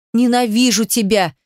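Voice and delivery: despairing hatred, lightly pushed. A narrator's reading. Heroine to Demyan who stays silent, despairing. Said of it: "с отчаянием выдохнула я".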